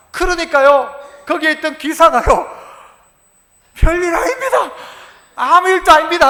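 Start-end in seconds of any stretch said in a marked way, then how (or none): 3.7-6.3 a touch higher, hurried reassurance; smooth it over nervously; driver backing down. Retold or imitated. Driver reassuring the boy's father, in a nervous voice. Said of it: "하고는요".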